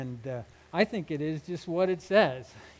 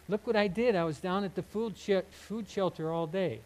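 mock showboat. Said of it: "this kind of this showboat".

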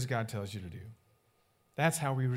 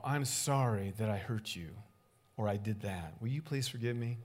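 sincere apology; 4 semitones lower, 4 dB quieter than usual. Shown as a demonstration. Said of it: "That's what you say".

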